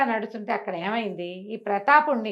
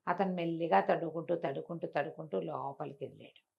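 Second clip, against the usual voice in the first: hushed groping; 4 semitones lower, 7 dB quieter than usual. A narrator's reading. Groping slowly through darkness.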